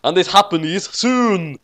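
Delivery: high, slow terrified yell; mock yell. A narrator's reading. Ray yells in terror of coming adventures, mock yell. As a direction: shout it in dread. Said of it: "yelled Ray at the top of voice".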